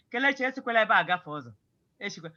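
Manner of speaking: fast, offhand warning with no weight on "esikwela"; casual warning. Shown as a demonstration. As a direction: toss it off quickly, not meaning it. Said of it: "it is not a serious warning".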